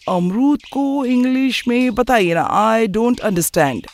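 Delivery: high, drawn-out appeal, slowing into English; affected bafflement. Acted. Nephew asking for the English word, affected bafflement.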